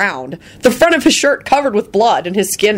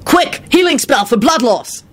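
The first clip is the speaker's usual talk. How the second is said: yelled; 6 semitones higher than usual. A narrator's reading. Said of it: "Lupin yelled".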